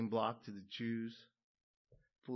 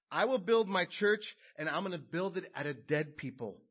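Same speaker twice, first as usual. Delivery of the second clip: plain; 5 semitones higher, 8 dB louder than usual. Acted. Preacher voices Jesus, repeated quote.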